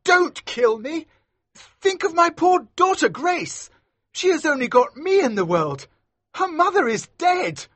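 very high, panicked begging; terrified pleading. A narrator's reading. Magistrate begs smuggler for his daughter's sake, panicked. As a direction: plead desperately for your life.

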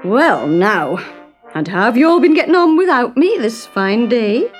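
loud, bright hearty greeting; cheerful. A narrator's reading. Fred cheerfully greeting family at dinner, loud. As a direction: beam at the family. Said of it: "he said cheerfully".

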